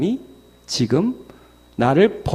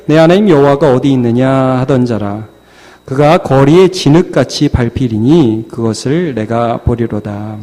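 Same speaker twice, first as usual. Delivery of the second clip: scripture reading; 6 dB louder than usual. Real, not acted. Preacher reading Micah with congregation, measured recitation. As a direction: lead the congregation through the verse.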